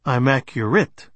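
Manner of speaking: "accurate" with its final syllable stressed; stress on last syllable. A narrator's reading. Man answering in kind, last syllable of "accurate" stressed. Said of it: "I stressed the last syllable, too".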